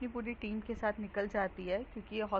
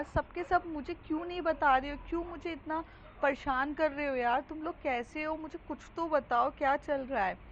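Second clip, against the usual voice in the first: higher and louder, frantic questions; panicked yelling; 4 semitones higher, 3 dB louder than usual. Retold or imitated. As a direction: demand answers in a rising panic. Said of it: "phone पे बहुत ज़्यादा चिल्ला रही है".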